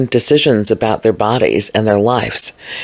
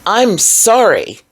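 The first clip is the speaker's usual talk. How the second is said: apology; 8 semitones higher, slower than usual. Real, not acted. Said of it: "I'm not sorry".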